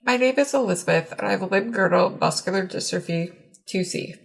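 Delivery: muffled voice, as if through a ventilator mask. Real, not acted. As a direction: speak muffled, breath-supported by a ventilator. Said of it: "my voice is muffled due to needing ventilation".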